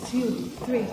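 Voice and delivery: counting cpr compressions. Real, not acted.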